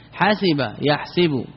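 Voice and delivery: حسب يحسب spelled out slowly, syllable by syllable; slow teaching read of حسب يحسب; slow demonstration. Shown as a demonstration. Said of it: "وجهان فيه من احسب". (نطق بطيء تعليمي لـ حسب يحسب)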